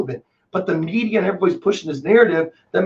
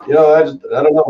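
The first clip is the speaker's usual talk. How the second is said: laughing; 6 dB louder, faster than usual. Real, not acted. Laughing after a joke.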